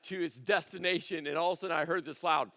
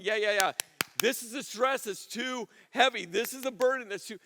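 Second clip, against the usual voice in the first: raised, emphatic declaration; saying it out loud; 4 semitones higher, 4 dB louder than usual. Acted. Preacher voices a congregant admitting their burden, out loud. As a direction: own up to it forcefully. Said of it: "actually saying it out loud".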